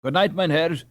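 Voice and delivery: panting. Acted. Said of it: "panted Hans".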